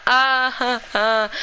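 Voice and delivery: lightly acted wailing sobs, short and broken; understated mock crying wail; imitated screaming cry. Shown as a demonstration. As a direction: show the screaming cry, half-done. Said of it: "like that".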